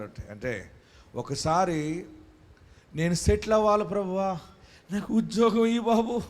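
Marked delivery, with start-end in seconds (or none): 2.9-6.2 mock tearful prayer. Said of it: "అని ఏడుస్తాం".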